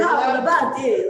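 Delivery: exaggerated Italian-style Kapalabhati, high and loud; Italian-sounding pronunciation. Shown as a demonstration. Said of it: "saying it like an Italian".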